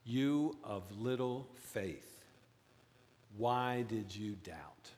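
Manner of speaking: slow, solemn You of little faith; stern rebuke. Retold or imitated. Jesus to Peter, slow stern rebuke. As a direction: rebuke slowly and gravely. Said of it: "Jesus says to Peter".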